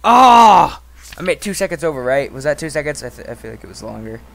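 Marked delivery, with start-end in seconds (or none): 0.0-0.8 loud, high panicked cries of alarm; panicked shouting. Real, not acted. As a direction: yell in rising panic as it all goes wrong. Panic as game goes wrong.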